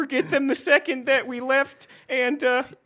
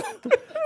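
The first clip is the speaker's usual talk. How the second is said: fake crying laugh; 4 dB quieter than usual. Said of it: "Why are you crying?".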